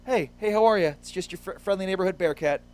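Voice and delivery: high-pitched, chummy mascot greeting; friendly Bearcat. Acted. Mascot saying hello on the street, friendly Bearcat voice. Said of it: "Very approachable Bearcat here".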